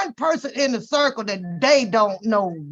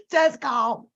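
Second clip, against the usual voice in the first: ordinary talk, nothing marked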